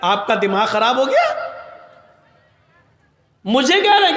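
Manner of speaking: amused disbelief with a laugh. Retold or imitated. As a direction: laugh off the absurd question. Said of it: "ہنس کے کہتا ہے". (ہنستے ہوئے حیرت)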